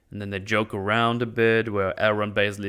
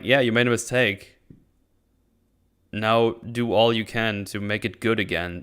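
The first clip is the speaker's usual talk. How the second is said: sincere rephrase. Shown as a demonstration. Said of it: "this is how I would phrase it".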